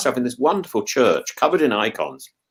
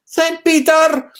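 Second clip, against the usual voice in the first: high, slow, louder insistence; mock guide insisting on Saint Peter; insistent guide; 13 semitones higher, 4 dB louder, much slower than usual. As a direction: drag out the correction stubbornly. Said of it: "he said".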